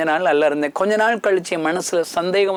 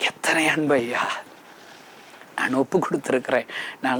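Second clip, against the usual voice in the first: hushed devotion; 5 semitones lower, 6 dB quieter than usual. Real, not acted. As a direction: lower and much softer, moved. (மென்மையான பக்திக் குரலில்)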